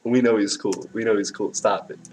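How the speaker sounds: a lady primly telling him to stop showing off; pursed-lip scolding. Retold or imitated. Imitating the lady shushing the medal guy, prim and pursed. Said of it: "with her lips pursed".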